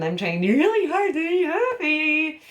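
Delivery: a grin held so hard it turns creepy; creepy happy. Shown as a demonstration. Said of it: "And this is the creepy one".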